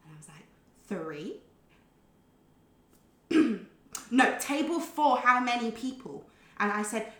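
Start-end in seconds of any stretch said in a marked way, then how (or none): 0.9-1.4 small, quiet, rising query; tentative question. Retold or imitated. Customer answering a confused waitress, quietly questioning. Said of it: "she almost had an argument with me". 4.1-6.2 insistent. Retold or imitated. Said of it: "she almost had an argument with me".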